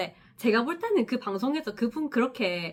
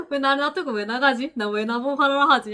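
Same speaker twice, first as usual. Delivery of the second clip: puzzled; 4 semitones higher, 5 dB louder than usual. Retold or imitated. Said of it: "약간 이랬는데".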